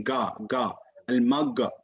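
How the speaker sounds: Ga and Al-Magha with g stopped, between ghain and jim; Ga, Al-Magha with blocked airflow; mistaken hard g. Shown as a demonstration. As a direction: demonstrate the error with a plosive g in Al-Magha. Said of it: "somewhere between Ghain and Jim".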